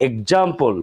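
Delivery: এক্সাম্পল said egzampl; voiced gz in এক্সাম্পল. Shown as a demonstration. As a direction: model the right sound. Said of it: "উচ্চারণ করতে হবে".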